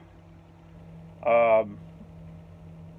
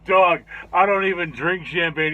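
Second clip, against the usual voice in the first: louder, higher retold protest; animated protest; 4 semitones higher, 7 dB louder than usual. Shaggy answering about champagne, retold protest. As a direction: imitate a friend insisting loudly.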